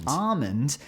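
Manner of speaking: questioning "almond" as AH-mund, no L; Australian almond. Retold or imitated. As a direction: query "almond" with a long ah and rising end. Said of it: "Almond with no L".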